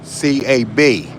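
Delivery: C A B spelled out letter by letter, slow; spelling it out. Real, not acted. Spelling "C A B" out slowly for the radio listeners. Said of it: "spells out the word".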